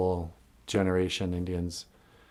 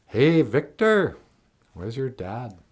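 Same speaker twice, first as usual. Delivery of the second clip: put-on Smoke Signals accent; 2 semitones higher, slower than usual. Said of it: "I basically stole the accent from the movie Smoke".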